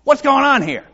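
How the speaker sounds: imitating a frantic Gideon; Gideon's plea. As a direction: call out for help, agitated. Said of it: "what he's saying is like".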